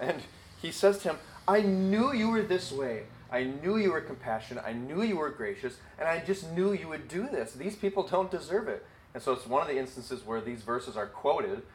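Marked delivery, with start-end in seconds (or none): 1.5-8.8 mad Jonah. Retold or imitated. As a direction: spit out the grudge against God. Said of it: "but it's somebody being mad".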